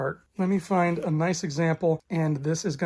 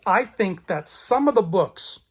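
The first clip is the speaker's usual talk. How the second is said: some leaned on, said slowly; stress on some. Shown as a demonstration. Vlogger insisting only some books are good, stressing some. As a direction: lean on the word some. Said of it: "I stress the word some".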